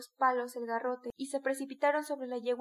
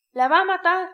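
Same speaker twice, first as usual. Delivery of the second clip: much higher, much louder yell; crowd shout; 6 semitones higher, 15 dB louder than usual. A narrator's reading. Onlookers shouting at the beating, loud high yell. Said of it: "gritaron los testigos".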